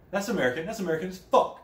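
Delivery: high, loud mocking exclamation; sarcastic outburst. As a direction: bellow it like a sarcastic punchline. Sarcastic exclaiming about American.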